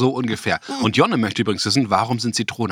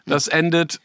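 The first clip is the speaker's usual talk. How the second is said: ominous warning; 8 semitones higher, slower than usual. Acted. Warning before the lemon challenge.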